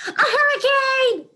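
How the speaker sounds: high, loud, slow triumphant answer; puppy proudly exclaims her riddle answer; exclaiming. A narrator's reading. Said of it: "she exclaims".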